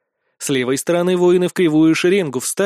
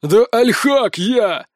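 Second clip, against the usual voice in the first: slow, louder, high happy cry; joyful exclamation; 6 semitones higher, 4 dB louder, much slower than usual. A narrator's reading. Giant revealing himself to his old nanny, joyful exclamation. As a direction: proudly announce your name to her. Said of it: "восклицает здоровяк".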